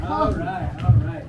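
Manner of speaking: loud call. Acted. Calling group to attention.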